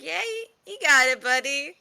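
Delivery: encouraging Todd voice. Acted. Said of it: "still lying down on the floor, pretending to be dead".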